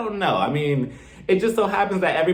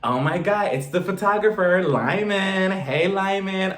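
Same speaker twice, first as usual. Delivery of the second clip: higher, drawn-out hello; gushing greeting; 4 semitones higher, slower than usual. Retold or imitated. Mother greeting the photographer at the door, mock gushing. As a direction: stretch the name in mock delight.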